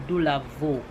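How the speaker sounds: Dulavo said in English as doo-la-VO; English-accent pronunciation. Shown as a demonstration. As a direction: say Dulavo with a "doo" start and "vo" end. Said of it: "do it in my English accent".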